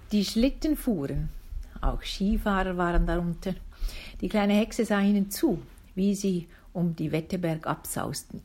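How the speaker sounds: lively storybook reading voice; story narration. A narrator's reading. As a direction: read it like a bedtime tale for a listener. Reads a children's story aloud.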